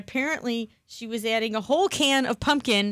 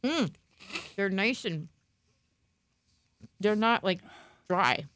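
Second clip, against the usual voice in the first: talking through a mouthful; chewing while talking; mouth full; 2 semitones lower, 3 dB quieter, slower than usual. Real, not acted. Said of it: "I'm trying to eat and my mouth full".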